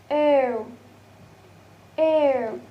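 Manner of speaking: "air" as a long falling glide; diphthong demo. Shown as a demonstration. Teacher showing the next diphthong, drawn-out demo. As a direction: model "air" slowly, pitch sliding down. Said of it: "And the next is".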